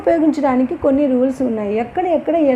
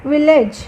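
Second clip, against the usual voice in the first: విలేజ్ with the weight on వి; stress on first syllable; 2 semitones higher, 3 dB louder than usual. Shown as a demonstration. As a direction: say విలేజ్ pushing the opening వి. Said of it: "విలేజ్ అన్నప్పుడు word స్టార్టింగ్లో stress".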